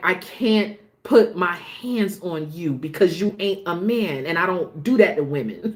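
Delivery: angry, aggressive, confrontational, heated retort. Retelling what Drew said to a woman: imitating Drew aggressively. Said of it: "he had every right to be aggressive".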